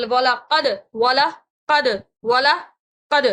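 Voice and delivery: والا قد with short لا, bouncing final d; correct echoing qad. Shown as a demonstration. Teacher models for students, short والا and echoed d in قد. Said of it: "اس طرح سے پڑھنا ہے".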